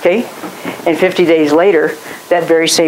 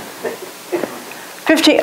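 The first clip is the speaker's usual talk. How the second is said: whispered; 10 semitones higher, 7 dB quieter than usual. Shown as a demonstration. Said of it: "my bedroom's bigger than that".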